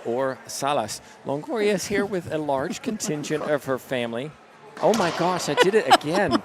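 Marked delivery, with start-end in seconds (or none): 4.8-6.4 trying not to laugh. Real, not acted. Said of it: "I'm trying not to laugh".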